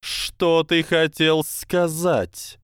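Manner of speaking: high, slow hissing snake voice; slow hypnotic serpent hiss. Acted. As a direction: hiss each word like a serpent. Snake character speaks.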